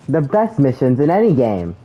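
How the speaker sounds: dry sarcastic praise; deadpan, clearly not meaning it. Real, not acted. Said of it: "Said super sarcastically".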